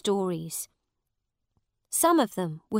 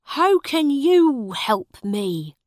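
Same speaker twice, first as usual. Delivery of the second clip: surprised; 7 semitones higher, 9 dB louder, slower than usual. A narrator's reading. Farmer doubting the boy.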